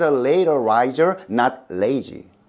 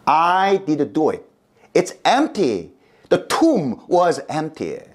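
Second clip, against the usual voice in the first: insistent; 4 semitones higher than usual. Acted. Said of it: "Philip insisted".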